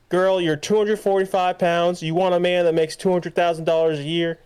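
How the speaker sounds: Kevin Samuels. Retold or imitated. Man online challenging a woman's expectations, imitated in a high voice. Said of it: "Kevin Samuels".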